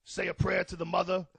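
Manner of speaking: quiet impression. Joe impression goes hushed.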